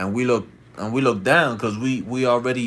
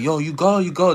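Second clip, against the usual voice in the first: high, raised mimicked call; retold shout, pitched up; 7 semitones higher, 4 dB louder than usual. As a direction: call out to a stranger, imitated. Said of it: "They all shouted".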